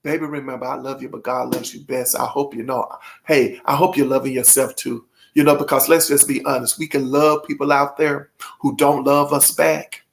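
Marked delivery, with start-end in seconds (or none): 0.0-5.1 mother's tender words. Retold or imitated. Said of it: "she says to me".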